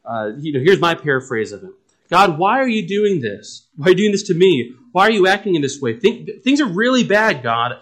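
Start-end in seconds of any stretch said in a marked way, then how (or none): 2.1-7.7 higher-pitched plea to God; mildly acted anguished appeal; crying out. Preacher voices Job questioning God, mildly crying out. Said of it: "he's crying out about how bad".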